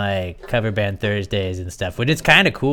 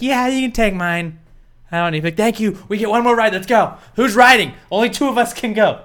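put-on excited kid voice; 10 semitones higher, 4 dB louder than usual. Acting out carnival ticket exchange.

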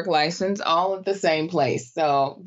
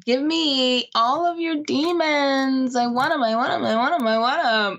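higher, hammed-up hungry plea; mock eager; 7 semitones higher than usual. Mocking Claire, hammed-up eager begging. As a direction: beg for it like a greedy kid.

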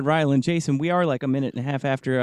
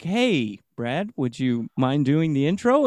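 nice and cordial; 2 semitones lower, slower than usual. Retold or imitated. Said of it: "nice and cordial".

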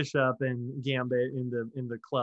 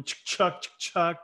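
gun cocking sound; 3 semitones higher than usual. Shown as a demonstration.

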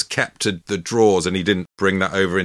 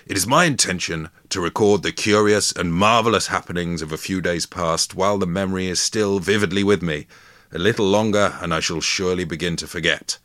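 lightly voiced Victorian gentleman; stagey period drama. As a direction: read it like an old diary, grandly. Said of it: "It's the voice as well".

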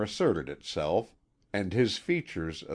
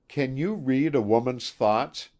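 airy, higher teasing question; light manner; 6 semitones higher, 4 dB louder than usual. A narrator's reading. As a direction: toss it off lightly. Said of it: "she asked in her lightest manner".

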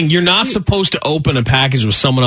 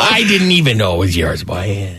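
imitating his dad; 5 semitones lower than usual. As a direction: play dad excusing himself, sinking at the end. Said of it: "He's like".

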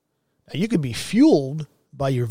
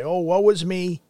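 mock self-pity; 4 semitones higher than usual. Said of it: "Pity party".

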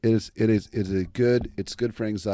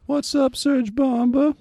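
hyped announcer greeting; 5 dB louder, slower than usual. Acted. Hyped shout-out greeting to listener.

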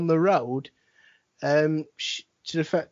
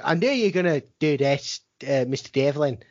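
badly faked Irish accent; a hint of a retold Irish brogue; mock Irish accent; 4 semitones lower than usual. Quoting the wrestler, bad mock Irish accent. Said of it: "he definitely didn't have an Irish accent".

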